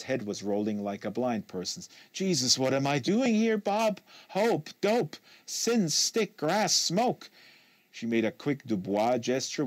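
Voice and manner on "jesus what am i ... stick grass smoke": higher, louder, mocking the list of slang; Kate, sarcastic and louder. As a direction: toss off the drug names with bitter sarcasm. Kate bitter wordplay.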